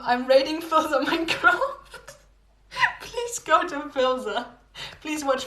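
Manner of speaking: laughing raid announcement to chat; excited raid call. Real, not acted. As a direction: cheerfully announce the raid, giggling.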